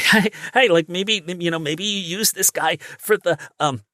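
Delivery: rising into high panic near the end; a lightly voiced nervous servant; nervous clerk. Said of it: "really nervous and be like".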